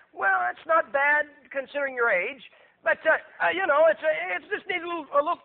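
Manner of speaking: hammed-up patronizing critic; mock condescending. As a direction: talk down like a smug critic. Mocking condescension to God.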